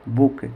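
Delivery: brief vowel in बुक, like English "book"; बुक read out as a model word; short oo. Shown as a demonstration. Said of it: "इसको क्या पढ़ेंगे".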